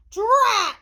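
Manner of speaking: high, loud burst of frustration; cartoonish exasperation; frustrated exclamation. A narrator's reading. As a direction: exclaim it like a thwarted storybook ghost. Ghost fails to lift pumpkin.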